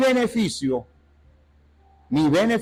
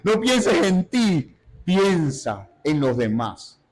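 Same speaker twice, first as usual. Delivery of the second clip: inner shout voiced; much slower than usual. Preacher voicing his silent cry to a coworker, slow and insistent. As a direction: spell it out slowly, like a silent yell. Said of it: "por dentro estoy gritando".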